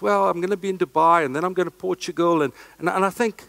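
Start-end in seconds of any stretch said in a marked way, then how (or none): 0.0-2.4 quick, offhand, downplaying tone; playing it down. Shown as a demonstration. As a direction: toss it off casually. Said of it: "play it down".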